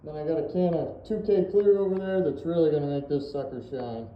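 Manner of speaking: talking through a respirator mask; muffled behind a paint mask. Real, not acted. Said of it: "Please excuse my muffled voice".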